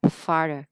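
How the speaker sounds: FARTHER with a smaller mouth opening on the A. Shown as a demonstration. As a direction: say FARTHER with an ordinary, narrower A. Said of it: "thì nó sẽ nhỏ hơn".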